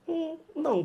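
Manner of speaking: muxoxo agudo e baixinho de aluno; aluno hesitante. Acted. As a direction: imite um aluno discordando, bem agudo. Aluno fictício responde ao professor. (aluno hesitante, voz aguda)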